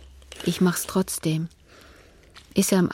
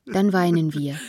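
words broken by tears; crying; 4 dB louder than usual. Acted. Mother weeping with her son in his room. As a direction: let the sob come through the line.

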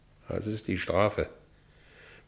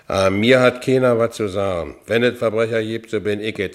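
put-on drunken outburst; 3 semitones higher, 6 dB louder than usual. Drunk ex-con raging in bed.

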